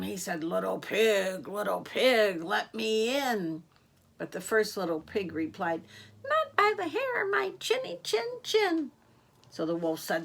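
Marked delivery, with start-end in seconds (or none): 0.4-3.6 wolf voice. Acted. Wolf voiced asking at door. 6.2-8.9 high, tiny pig voice, much higher; squeaky little pig. Acted. First little pig refusing the wolf, in a high squeaky pig voice.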